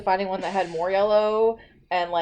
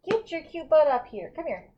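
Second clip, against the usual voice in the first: higher, cooing call to a pet; coaxing pet talk; 6 semitones higher than usual. Real, not acted. Host calls Chewy over on air, coaxing. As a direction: sweet-talk the pet into coming.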